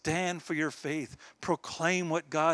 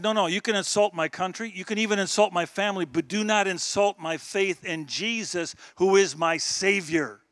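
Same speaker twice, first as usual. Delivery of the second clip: firm defiance; 3 semitones higher, 5 dB louder than usual. Retold or imitated. Retells standing up to insulter.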